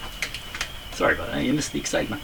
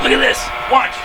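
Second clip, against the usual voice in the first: squeaky high pet-luring voice; high coaxing call; 5 dB louder than usual. Real, not acted. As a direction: coax it up high and bright.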